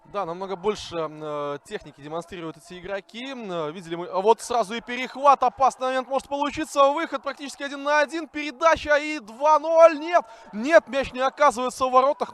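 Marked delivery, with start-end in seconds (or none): 4.1-12.3 excited. Real, not acted. Attack builds toward goal.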